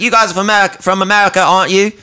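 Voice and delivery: high, polite awkward stranger impression; high mimic voice. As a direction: pipe it up like a socially awkward fan. Mimicking the odd guy.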